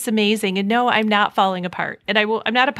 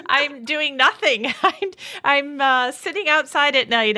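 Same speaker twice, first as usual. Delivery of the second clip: amused; 5 semitones higher than usual. Retold or imitated. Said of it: "I'm like".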